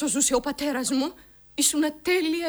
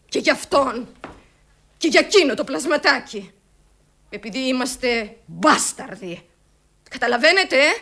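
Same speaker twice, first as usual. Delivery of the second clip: bitter outburst; 6 dB louder than usual. Acted. Bitter outburst about being bastards.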